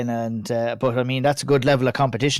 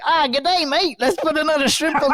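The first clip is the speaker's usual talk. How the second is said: camp it up like Jim Carrey's Aussie greeting; mock Australian accent; 14 semitones higher than usual. Retelling Dumb and Dumber scene in Australian accent. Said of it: "And he's like".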